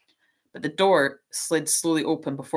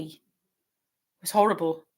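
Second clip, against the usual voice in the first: slightly higher voice; much slower than usual. Acted. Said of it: "in a higher voice than usual".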